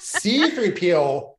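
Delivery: put-on Minnesota accent. Joining the Minnesota movie joke, Minnesotan accent. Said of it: "every time you go to Minnesota".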